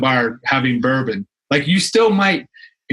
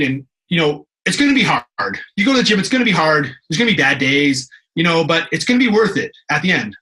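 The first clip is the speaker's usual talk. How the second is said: typical pep talk; 2 semitones higher than usual. Shown as a demonstration. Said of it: "that's kind of a typical story".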